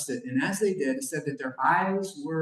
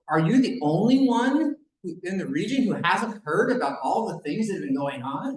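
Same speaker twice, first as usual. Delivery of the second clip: sarcastic; 3 semitones higher, 3 dB louder than usual. Retold or imitated. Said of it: "the sarcasm in their voice".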